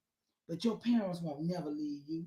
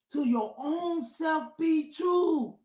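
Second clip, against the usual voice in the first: emphatic raised maxim; 7 semitones higher, 3 dB louder, much slower than usual. Real, not acted. Repeats it higher and slower.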